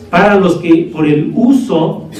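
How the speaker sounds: emphatic preacher stress on "uso". Shown as a demonstration. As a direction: drag out the phrase and punch "uso". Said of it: "le recalco esta palabra porque es el uso".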